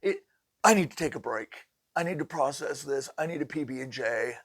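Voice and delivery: high, loud spooked voice, calming down; rattled and needing a break; freaked out. Retold or imitated. Sheetrocker spooked by the ghost news: high, loud freaked-out voice. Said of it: "And he goes".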